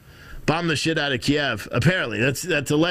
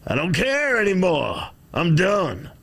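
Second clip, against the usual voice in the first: mock outburst; 6 semitones higher, slower than usual. Streamer hamming up not caring about anything anymore, mock outburst. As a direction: throw it out like a dramatic mock breakdown.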